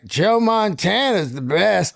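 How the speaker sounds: slow slurred stoned voice; drooling slur. Retold or imitated. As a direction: mumble it like you're drooling. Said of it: "I just came out like".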